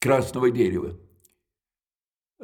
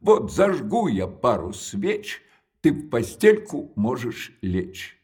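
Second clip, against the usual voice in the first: put-on slow, ominous recital of a children's verse; slow sinister nursery rhyme recitation; reciting a rhyme; 3 semitones lower, slower than usual. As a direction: draw it out, dropping low and dark on the last line. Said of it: "а кончается так".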